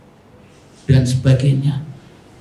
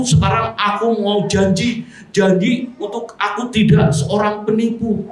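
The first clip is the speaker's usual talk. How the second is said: glib promise; 5 semitones higher than usual. Retold or imitated. Careless promise of change.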